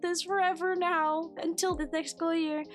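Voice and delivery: hammed-up wail of self-pity; mock tearful whine. Teacher alone in her empty classroom, mock tearful whine.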